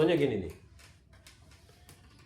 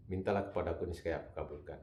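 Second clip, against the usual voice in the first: softer, lower, humbly asking; soft pleading; 8 semitones lower, 7 dB quieter, faster than usual. Shown as a demonstration. Preacher demonstrating how to ask God, soft and humble. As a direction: murmur it like a humble prayer. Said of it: "setelah saya minta dengan cara seperti itu".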